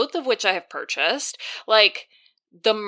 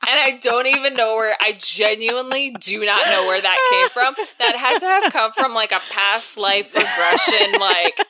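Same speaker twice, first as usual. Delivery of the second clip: laughing; 3 semitones higher, 4 dB louder than usual. Real, not acted. Laughing at her reaction.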